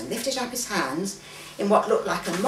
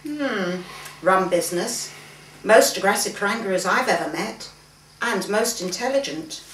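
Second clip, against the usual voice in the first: louder, forceful retelling; hearty father voice, louder; animated storytelling father; 6 dB louder than usual. Acted. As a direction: stress the danger, loud and lively. Papa telling of stabbing, animated.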